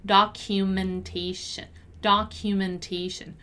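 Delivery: "Documentation" as a measured pronunciation drill; careful pronunciation model. Shown as a demonstration. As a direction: enunciate every syllable of "Documentation" for learners. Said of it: "the pronunciation of the word documentation".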